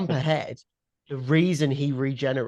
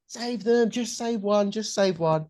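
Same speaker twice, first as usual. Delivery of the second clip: higher-pitched, mildly imitated scream of "Save them"; mild mock scream; 8 semitones higher than usual. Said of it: "Donna's screaming".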